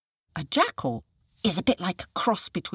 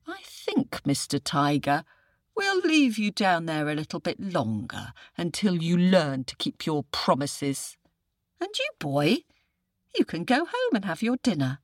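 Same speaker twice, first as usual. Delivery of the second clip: lightly voiced clever jackal; 2 semitones higher than usual. Jackal gives verdict.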